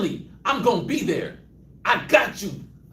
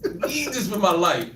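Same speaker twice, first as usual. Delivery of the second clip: pleading prayer; 6 semitones higher, slower than usual. Retold or imitated. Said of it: "you're like".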